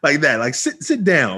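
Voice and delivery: high, clipped-out mock stern order; stern sit down. Tutor ordering late student, mock stern command. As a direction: bark it like a fed-up new teacher. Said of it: "So I'm like".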